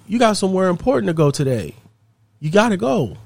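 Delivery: lightly voiced child insisting; urging little daughter. Daughter urges her mother.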